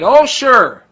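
mock driver. Bus driver finally understands.

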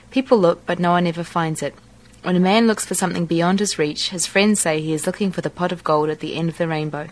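reads the set passage aloud; passage reading. Acted. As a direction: read it like a practiced text.

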